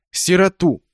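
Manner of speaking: loud laughing echo, high. A narrator's reading. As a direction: laugh as you repeat it. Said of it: "Оля громко засмеялась".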